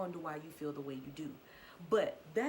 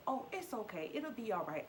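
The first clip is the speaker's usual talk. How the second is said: breezy excuse; 4 semitones higher than usual. Retold or imitated. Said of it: "excuses of".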